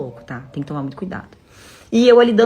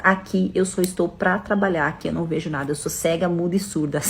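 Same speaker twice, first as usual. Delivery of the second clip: measured and detached, trailing softer; cold and calculating; 4 dB quieter than usual. Retold or imitated. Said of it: "E muito fria e calculista".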